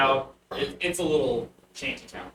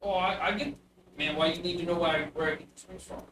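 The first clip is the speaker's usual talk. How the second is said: put-on bugbear child voice; 2 semitones higher, faster than usual. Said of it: "a small little bugbear child".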